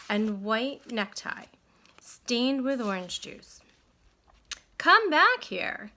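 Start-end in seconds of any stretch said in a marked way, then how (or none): 4.8-5.9 loud, high call across the pond. A narrator's reading. Leroy calling Stuart back to his boat, loud and high. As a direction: shout for the mouse to come back. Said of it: "he called to Stuart".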